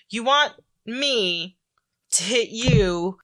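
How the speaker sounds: slow, drawn-out incredulity; mock incredulous kid; retold disbelief. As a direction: spell it out slowly, as if questioning a crazy order. Retold kid balks at absurd order.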